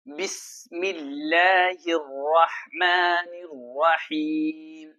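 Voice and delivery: slow, measured tajweed recitation; slow melodic Quran chant. Shown as a demonstration. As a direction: recite it slowly like a qari. Recites verse.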